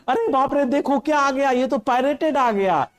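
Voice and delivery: high, alarmed exclamation; frightened cry. Acted. Teacher voicing the frightened pets seeing the pirate, high alarmed cry.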